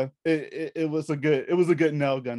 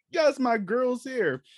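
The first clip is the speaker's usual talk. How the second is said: higher and slow, savoring it; delighted fan; 10 semitones higher, much slower than usual. Retold or imitated. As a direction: greet a favorite actress with joy. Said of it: "I'm just like".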